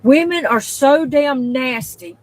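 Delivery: slow, loud, disgusted declaration; disgusted outburst. Real, not acted. Ranting to viewers about nasty women, slow and loud. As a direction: spit it out in disgust. Angry opening rant declaration.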